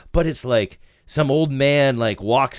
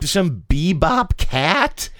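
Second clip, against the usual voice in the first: jazz cat voice; 7 semitones higher, much slower than usual. Pretend. Jazz junkie caricature.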